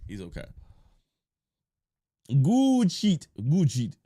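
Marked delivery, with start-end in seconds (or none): 2.4-4.0 catchphrase yell. Acted. Catchphrase again, loud.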